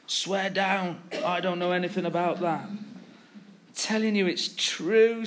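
a hint of playground pleading; playground swearing. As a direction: insist like a kid in the playground. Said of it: "like in the playground".

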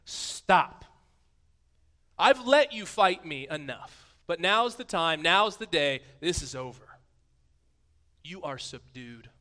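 loud, slow, authoritative command; God ending the wrestling, loud and stern; commanding shout. Acted. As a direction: end the fight with a booming voice. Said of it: "picture of God with these".

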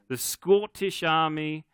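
badly faked Scottish accent. Preacher setting up the Braveheart scene, bad Scottish accent. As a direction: try a clumsy touch of Scots. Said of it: "that was my bad Scottish accent".

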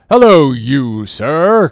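loud, challenging hail; captain's cry. A narrator's reading. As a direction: call him out as an irate captain. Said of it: "cried the captain".

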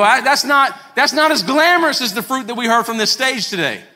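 hammed-up frustrated outburst; exasperated complaint. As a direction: blurt it out, half shouting. Acted complaint, shouted.

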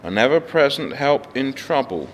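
measured, solemn psalm reading with long pauses; scripture reading. Acted. Pastor reading Psalm 46 to the church, solemn and measured. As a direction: read it like scripture before the congregation.

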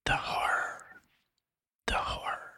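soft, unvoiced, haunted whisper. Reading Kurtz's final words aloud, ghostly whisper. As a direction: breathe it out like a dying man.

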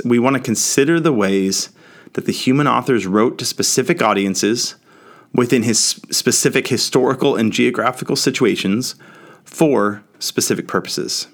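each "specific" pressed a little harder; stress on specific. Shown as a demonstration. Teacher reading a quote to the class, leaning on "specific". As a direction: lean on every "specific", slowing near the end. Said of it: "I'm trying to emphasize the word specific".

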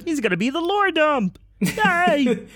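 excited planning. Real, not acted. Excited pitching of character ideas.

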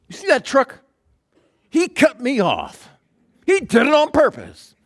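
high, loud outraged yelling; acted road rage. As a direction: play the indignant driver who was cut off. Acts out an outraged driver.

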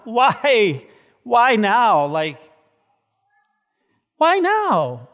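high, loud, pleading why; anguished crying out. Acted. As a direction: cry out to God in anguish. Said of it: "you crying out to him and saying".

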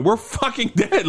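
high-pitched retold panic; imitating someone losing it, without shouting; freaking out. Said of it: "like, freaking out at this point".

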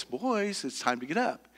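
put-on soft, gentle call to the boys; mom's sweet calm voice. Mom gently waking her boys, soft and sweet. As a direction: coax them awake softly. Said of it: "Linda's voice".

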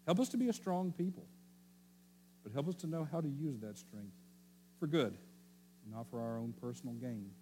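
earnest spoken prayer over the meal; closing prayer. Acted. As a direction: pray sincerely for the family table.

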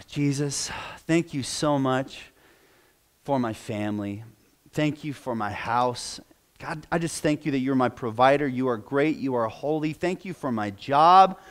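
soft, lightly acted rote prayer; a hint of a distracted believer praying; mock rote prayer. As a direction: mumble a quick dutiful prayer. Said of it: "their prayer goes something like this".

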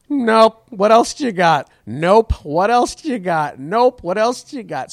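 loud flat Nope, then a bored What else do you got; dismissive crowd. Retold or imitated. The crowd shutting down the host, dismissive and loud. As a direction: heckle it like a cold crowd, repeating. Audience rejecting the host, mimed.

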